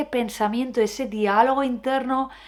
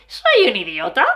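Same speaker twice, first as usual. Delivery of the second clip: "Soy" stressed, rising; a louder take of "Soy un idiota"; mock self-insult, louder; 5 dB louder than usual. Shown as a demonstration. Demonstrating a different tone for the negative thought. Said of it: "que decir".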